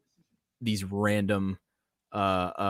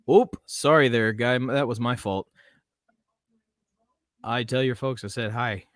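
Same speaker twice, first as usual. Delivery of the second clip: cheery Canadian accent, a bit overdone; Canadian accent attempt; 3 semitones higher, 6 dB louder than usual. Shown as a demonstration. Streamer trying a Canadian accent on chat. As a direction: apologize like a polite Canadian. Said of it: "I think I went too Canadian with that one".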